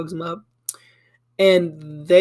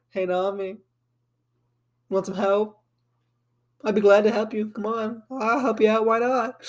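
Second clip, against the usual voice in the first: higher, sing-song offer with a grin; shit-eating grin; 3 semitones higher than usual. Retold or imitated. Ace offering Nami help, with a shit-eating grin. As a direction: play a smugly over-helpful offer, voice lifted. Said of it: "sitting there with a shit-eating grin".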